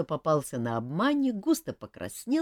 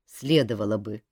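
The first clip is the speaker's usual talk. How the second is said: grumbling; 3 semitones lower, 6 dB louder than usual. Acted. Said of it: "проворчала Марга".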